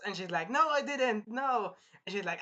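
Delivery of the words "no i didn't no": high-pitched mock protest; imitating a cornered princess; panicked denial. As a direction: plead innocence in a raised voice. Acts princess denying accusation.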